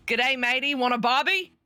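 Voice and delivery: a light, hammed-up Australian accent; a quick, half-hearted stab at sounding Australian. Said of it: "what accent they should use".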